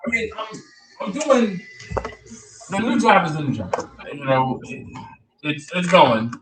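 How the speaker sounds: hollow, distant echo; like talking from a tunnel. Real, not acted. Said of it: "kinda sounds like you're in a tunnel".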